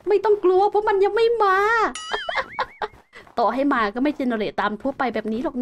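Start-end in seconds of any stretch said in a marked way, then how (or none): 1.6-2.9 quick squeaky laugh; high giggle. Real, not acted. Laughing at own joke.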